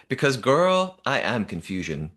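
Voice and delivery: a mild imitation of her sass, leaning on girl; sassy quote. A host quoting a contestant's vote with mild sass. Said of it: "votes for Kran and says".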